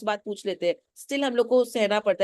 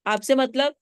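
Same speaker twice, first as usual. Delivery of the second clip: higher, mildly snappish retort; rude tone; 4 semitones higher, 3 dB louder, slower than usual. Acted. Daughter rudely answering the neighbour, mock rude tone. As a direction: imitate a rude brush-off. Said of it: "ये tone का बात है".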